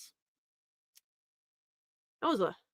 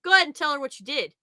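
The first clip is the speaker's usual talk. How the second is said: fast, higher, commanding grandpa; stern demand; 6 semitones higher, 4 dB louder, much faster than usual. Retold or imitated. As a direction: push the kid to confess, quickly. Grandpa ordering child to confess.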